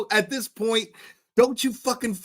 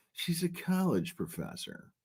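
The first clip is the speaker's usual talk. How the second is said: mocking Vinny; 11 dB quieter than usual. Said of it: "why did you minimize college professor".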